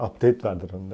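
low, laughing echo of his line; mock him while laughing; laughing mimicry. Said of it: "Derdine bak".

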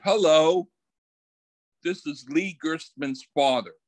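a hint of a stiff dad calling in his son sick; retold formal father. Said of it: "the way he did it".

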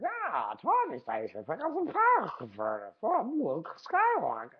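high, hammed-up Luke voice; a shitty imitation of Luke; mock Luke, deliberately terrible; bad Luke Skywalker impression. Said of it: "It's a shitty one".

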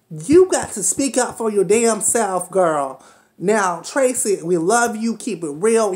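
loud, emphatic call to Tracy. Real, not acted. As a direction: project it straight at her. Calling out to Tracy.

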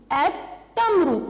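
التمر very slow, lam silent, تّ doubled; stretched التمر with a doubled t; slow sun-letter demo. Shown as a demonstration. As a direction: drag out التمر as a-tta-mru. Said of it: "اللام في كلمة التمر لم تلفظ".

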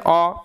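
"অ" as an isolated open vowel; short o sound. Shown as a demonstration. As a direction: model the vowel "অ" on its own. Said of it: "ও এর short sound হচ্ছে".

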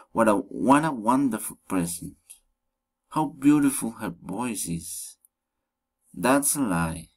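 "What a wonderful present" peaking, then dropping; falling exclamation intonation. Shown as a demonstration. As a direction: let "That's a lie" fall at the end. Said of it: "falling intonation".

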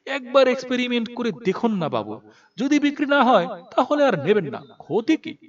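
coax, pitching it up a little; coaxing plea. Acted. Abbas urges the reluctant in-charge to try it, mildly pleading.

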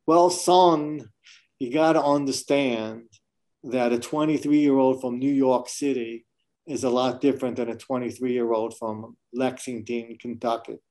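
lightly voiced Southern accent, half-hearted; bad Southern accent. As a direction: play the Kentucky interviewer in a mock Southern accent. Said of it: "I'll do my bad Southern accent, um, imitation".

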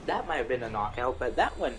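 talking through a mouthful of food; chewing while talking; mouth full. Real, not acted. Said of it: "I had to talk while my mouth was full".

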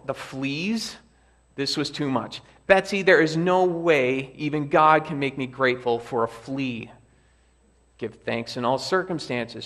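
lively read-aloud for the congregation; story reading. Acted. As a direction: read the camp scene with gentle drama. Preacher reads story aloud.

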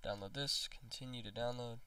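stuffy congested voice; blocked nose, just got over being sick. Real, not acted. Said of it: "Sorry if I sound, like, congested".

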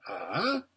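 questioning, rising "Ah?"; inquiring. A narrator's reading. Hedgehog answering a stranger, inquiring. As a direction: lift it into a mild question. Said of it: "said the hedgehog inquiringly".

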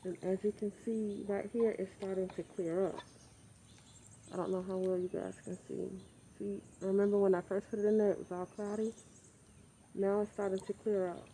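talking through a face mask; muffled voice behind a mask. Real, not acted. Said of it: "sorry if I sound a little muffled".

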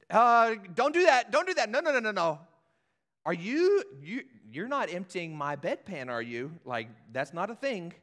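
loud, high, alarmed protest; protesting shout. Retold or imitated. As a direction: cry out in horror at the king. Pastor acts out protesting guest.

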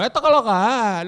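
put-on jokey burst of southern Spanish accent; southern Spanish accent slip. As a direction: let a thick Andalusian accent escape. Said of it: "se me va a escapar un".

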